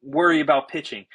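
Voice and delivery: mock the coach brushing him off; retold coach snapping at pitcher; annoyed coach.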